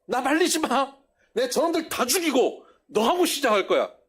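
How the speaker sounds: a hammed-up "don't stop me"; mock angry threat. Preacher voicing God threatening Moses, mock fury. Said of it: "하나님께서".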